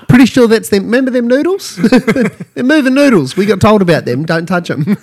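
high, loud, laughing pup voice; voicing the dog.

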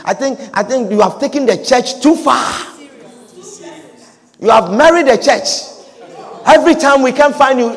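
lightly voiced Peter scolding; a hint of a worried friend lecturing; mild Peter pleading with Jesus; Peter counseling. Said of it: "I was just playing Peter for her".

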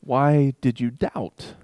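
a light mock scolding; teasing rebuke. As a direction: gently tease the doubter. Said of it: "It's that".

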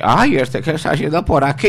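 put-on high startled old lady voice; man doing a woman's voice. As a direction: gasp it like a surprised mother-in-law. Mother-in-law voiced. (hombre imitando a la suegra sorprendida)

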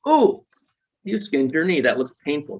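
put-on high, sympathetic ooh to a hurt child; caring parent. Parent comforting a child with a skinned knee, high sympathetic voice. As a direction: soothe a toddler who skinned a knee. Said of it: "your parent's gonna go".

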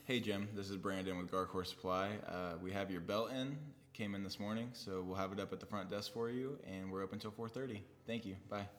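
polite work phone message; friendly customer service voicemail. Shown as a demonstration. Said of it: "let me hear your voicemail voice".

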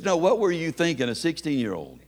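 a touch of exasperated disbelief; incredulous repeat. Retold or imitated. Son challenging his dad's excuse about a sixteen-year-old, incredulous. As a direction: press the question again, mildly incredulous.

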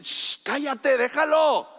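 mock shushing of a shouter; callando a alguien. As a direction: hush someone impatiently, as the crowd. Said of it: "lo quieren callar". (mandando callar con un «shh»)

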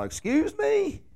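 high, slow, stretched "excuse me"; mock outraged disbelief. To James about his Facebook jab, mock shocked. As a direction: play up being shocked by James's post.

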